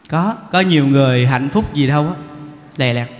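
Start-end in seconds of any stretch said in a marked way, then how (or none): none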